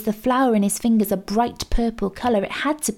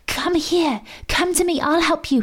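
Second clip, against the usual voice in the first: much higher, urgent and pressing; loud urgent hiss; 9 semitones higher than usual. A narrator's reading. Mo urging the panicked sea dragon to come, loud urgent hiss. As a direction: call out as loud as you dare. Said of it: "he hissed as loudly as he dared".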